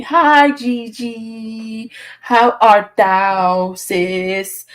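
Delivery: slow, stately mock-archaic greeting; slowly drawn-out playful old-timey hello; mock old-fashioned greeting. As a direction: greet her like a theatrical courtier.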